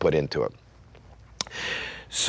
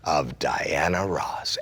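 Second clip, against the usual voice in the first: a hint of a booming casino announcer; lightly voiced Vegas announcer, fading to a hush; voice of God; 3 semitones lower than usual. Caesar's Palace announcer introducing a singer, mildly imitated. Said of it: "voice of God, as they call it".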